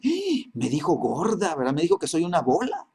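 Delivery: hammed-up gasp into understated outrage; mock offended. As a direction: act lightly scandalized by an insult. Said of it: "la persona se enoja y dice".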